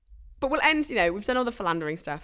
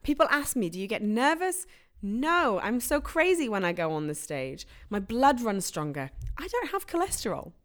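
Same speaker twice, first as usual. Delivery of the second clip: hammed-up celebrity quote; 3 semitones higher, 3 dB louder than usual. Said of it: "a direct quote".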